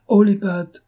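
high, loud cry of warning; shouted command. A narrator's reading. Lupin threatens the dealer reaching for his weapon, shouted command. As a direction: shout to stop him dead. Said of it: "Cria Lupin".

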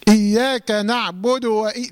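slow recitation, final u of نعبد cut short; wrongly clipped vowel. Shown as a demonstration. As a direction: recite نعبد without its full closing damma. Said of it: "لا تسكن الدال".

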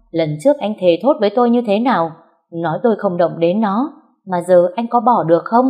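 rising angry questions at the husband; angry accusation. Acted. Wife confronting her cheating husband, angry and accusing. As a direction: demand answers, voice climbing.

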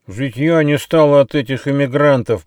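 long-nosed critter complaining through the nose; high, loud nasal grumble; nasal whine. A narrator's reading. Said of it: "прогнусавил длинноносый бандикут".

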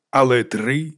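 slow, weighty sermonising; slow moralising pronouncement; preaching tone. A narrator's reading. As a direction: draw out the verdict like a preacher. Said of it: "проповідницьким тоном".

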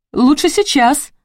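high, slow insistent exclamation; exclaiming. A narrator's reading. Narrator objects to waiting till evening, exclaiming. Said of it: "воскликнула я".

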